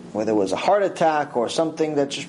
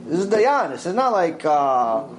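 normal talking voice

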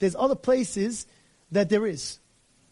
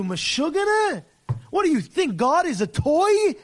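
ordinary talk, nothing marked

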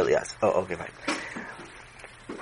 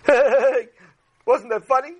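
put-on bratty seven-year-old; 9 semitones higher than usual. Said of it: "a boy that was seven".

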